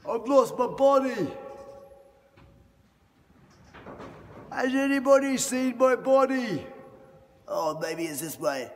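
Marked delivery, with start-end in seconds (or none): 0.1-6.6 high, silly puppet dinosaur; squeaky cartoon dinosaur. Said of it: "I'm a very ferocious dinosaur".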